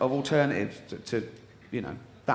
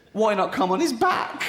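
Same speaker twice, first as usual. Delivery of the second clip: laughing reading; 6 semitones higher than usual. Real, not acted. Reading item two, laughing.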